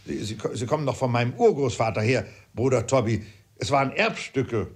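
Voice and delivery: touch of flustered outrage; indignant father. Acted. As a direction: stumble over words in mild indignation.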